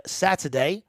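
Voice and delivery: Saturday in a put-on British accent. Shown as a demonstration. Streamer obliging a viewer's nice request, British accent. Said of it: "which British accent y'all like the best".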